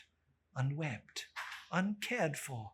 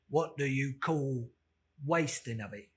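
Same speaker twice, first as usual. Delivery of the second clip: put-on old man; 2 semitones lower, 4 dB louder than usual.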